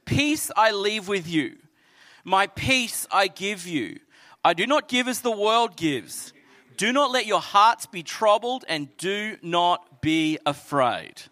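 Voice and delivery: slow, deliberate promise; slow scripture reading. Acted. Pastor reading the peace promise, slow. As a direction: let each phrase land with pauses. Reads verse slowly.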